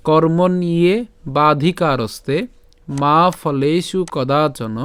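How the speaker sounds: slow, measured shloka recitation with drawn-out long vowels; Sanskrit verse recitation. Shown as a demonstration. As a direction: recite it slowly in careful Sanskrit. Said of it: "উচ্চারণটা কেমন হচ্ছে?". (ধীরে শুদ্ধ সংস্কৃত উচ্চারণে শ্লোক পাঠ)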